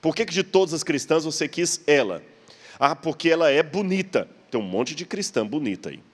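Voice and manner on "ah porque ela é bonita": acted lover's excuse, pitched up; eager justification. Man explaining why he chose her, eager justification. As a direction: offer another reason, lightly acted. Acting a lover's second answer.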